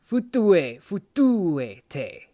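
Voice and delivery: futue, futuete with the stress on the TE of futuete; stress on the accent. Shown as a demonstration. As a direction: hit the TE in futuete hard. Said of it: "putting specific emphasis on".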